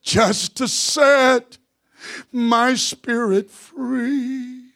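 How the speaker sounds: slow, raspy sung close; hoarse preacher, drawn out slowly. Real, not acted. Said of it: "with my raspy voice to say it like this".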